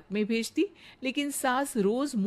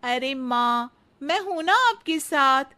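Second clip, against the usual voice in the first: put-on higher, eager young bride's voice; sweet daughter-in-law; 5 semitones higher, 6 dB louder than usual. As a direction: flatter the mother-in-law sweetly. Radha comforts her.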